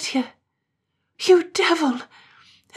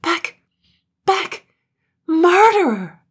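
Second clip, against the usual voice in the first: high, loud cries to drive him off; frantic shout; 12 semitones higher, 11 dB louder, slower than usual. Acted. Katrine driving off Gloom, high and screaming. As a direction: scream at him to get back.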